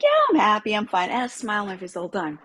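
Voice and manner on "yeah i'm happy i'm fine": a cheery reassurance to her husband; bright reply. Retold or imitated. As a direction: chirp that all is well.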